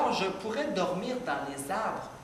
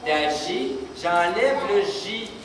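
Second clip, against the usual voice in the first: J'enlève stressed, slow and louder; slow emphatic demo; 5 dB louder, slower than usual. Shown as a demonstration. Teacher showing children how the J drops out, slow and stressed. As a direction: show the kids, stretching J'enlève. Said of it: "Regardez bien".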